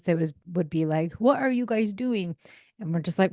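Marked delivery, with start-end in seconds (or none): 1.1-2.4 higher, drawn-out puzzled question; puzzled adult. Acted. Adult watching a weird kids' game, slow puzzled question. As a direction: question the kids slowly in disbelief. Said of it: "if an adult was watching us".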